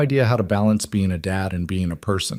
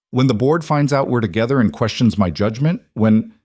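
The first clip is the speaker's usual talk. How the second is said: worried questions piling up, each ending on a rise; agitated what-ifs. Acted. Woman pacing before the man she fears losing, agitated. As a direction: push each fear out as a rising question.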